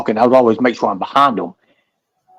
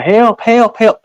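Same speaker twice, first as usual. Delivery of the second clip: high shouted help; mock panicked call for help; retold cry for help; 9 semitones higher, 4 dB louder, much slower than usual. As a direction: yell for help, pitched way up. Victim yelling for help.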